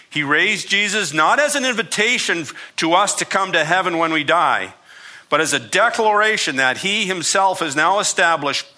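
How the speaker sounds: put-on reading in a light Southern accent; a touch of Southern preacher twang. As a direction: read it like a Georgia Southerner preaching. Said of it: "It's gonna sound like a Southern".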